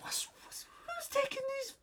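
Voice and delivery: whisper. Retold or imitated. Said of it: "I was like".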